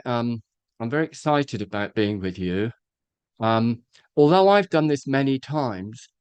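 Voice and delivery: bored, going-through-the-motions welcome; low-energy, indifferent speaker's greeting. Shown as a demonstration. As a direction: greet them as if you've done this too many times. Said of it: "he couldn't care less".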